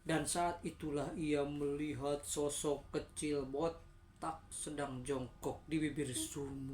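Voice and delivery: slow, drawn-out suspenseful telling; slow ghost-story reveal; spooky story narration. A narrator's reading. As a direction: stretch the words to build dread.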